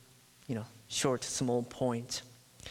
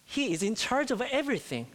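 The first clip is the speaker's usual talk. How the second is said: disciples' hopeful thought; 6 semitones higher, faster than usual. Retold or imitated. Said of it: "So they must have thought".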